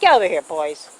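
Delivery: calling out. Real, not acted. Calling the boys over.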